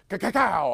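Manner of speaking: cartoonish pile-driver impact noise; wrestling hit sound. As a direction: slam it like a wrestler hitting the mat. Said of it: "he would be coming off the ropes".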